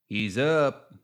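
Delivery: lilting gremlin voice. A narrator's reading. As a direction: call it to the gang with a slight lilt. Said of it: "voices were high and lilting".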